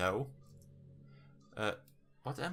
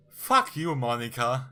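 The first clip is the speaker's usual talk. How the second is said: angry shout; 10 dB louder, slower than usual. Real, not acted. Yells at game character.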